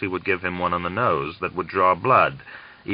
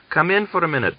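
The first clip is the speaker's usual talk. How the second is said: inviting; 11 semitones higher, faster than usual. Acted. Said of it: "he invited him".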